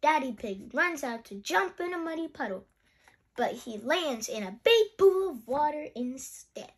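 put-on animated read-aloud for children; lilting storybook narration; story reading. A narrator's reading. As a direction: read a picture book with lively emphasis.

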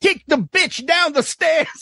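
high, lightly voiced Cosby impression. Retelling Eddie's Cosby bit, high voice. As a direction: lift the pitch for a cartoon Cosby. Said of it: "he did the impression".

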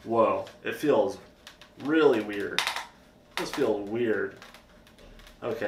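speaking behind a chin guard; wearing a full-face helmet. Real, not acted. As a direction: voice through helmet chin bar. Seen 0: Full-face helmet on, chin bar across his mouth throughout.

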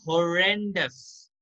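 "horrendous" said slowly, stress on REN; pronunciation model. Shown as a demonstration. Teacher showing students how it is pronounced, careful "horrendous". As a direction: say "horrendous" syllable by syllable, ho-REN-dus. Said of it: "इसका जो pronunciation होगा, वो होगा".

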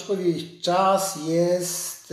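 ordinary talk

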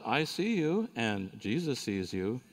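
half-acted parrot drawing out the name Jesus. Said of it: "And the parrot says".

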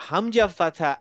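হামজা ফাথা আ, slow and clear; slow drill. Shown as a demonstration. Teacher leading slow repeat-after-me drill. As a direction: spell it out slowly for the class. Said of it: "আমি আস্তে আস্তে বলবো".

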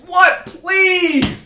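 loud high polite answer; shouted what please. Acted. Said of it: "that's how you should have answered".

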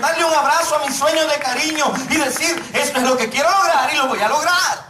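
exhortación intensa y apasionada; predicación ferviente. Acted. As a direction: predica con fuego a los jóvenes. Exhorts the youth to dream. (predicación en voz alta y apasionada)

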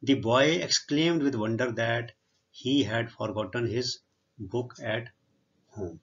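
reading the English sentence out word by word, very slowly; slow dictation reading. Shown as a demonstration. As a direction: spell it out slowly for the class. (ਬਹੁਤ ਹੌਲੀ ਹੌਲੀ ਪੜ੍ਹਾਉਣ ਵਾਲਾ ਲਹਿਜਾ)

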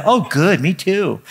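mock polite reply. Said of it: "And they'd be".

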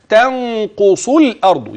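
تنقص slowed, the ن hidden in a nasal ghunna; recitation with ikhfa. Shown as a demonstration. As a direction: nasalize the ن of تنقص without a full n. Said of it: "يبقى في عندي غنة الإخفاء". (تنقص بغنة الإخفاء)

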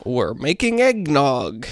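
slow, drawn-out impression attempt; David Lynch. Podcaster attempting an impression at mic check, slow drawl. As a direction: lightly imitate a slow, deliberate speaker. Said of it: "do a great David Lynch impression".

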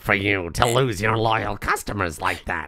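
a hint of a creepy villain; Choji voice. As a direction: read Morris like the Choji voice, lightly. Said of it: "This is the Choji voice".

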